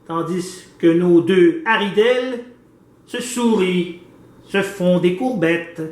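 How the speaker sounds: measured, rhythmic poetry recital; poem reading. Acted. Host recites his pictopoem about the painting as a measured poem reading. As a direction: read the verses with care, phrase by phrase.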